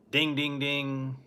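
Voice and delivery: drawn-out imitation of a ring bell; imitated bell dings. Wrestling fan recalling the bell ending a match, drawn-out dings. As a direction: sound out the bell slowly. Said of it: "you can hear 'em say".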